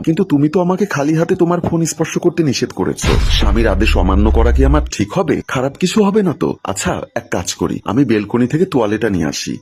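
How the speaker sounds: feigned surprise at his request; mock surprise. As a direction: play innocent and amazed, pitch lifted. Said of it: "অবাক হয়ে বললাম".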